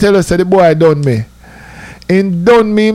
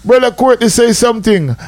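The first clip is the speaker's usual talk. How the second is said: bishop prompting; 5 semitones higher than usual. Retold or imitated. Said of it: "he call and say".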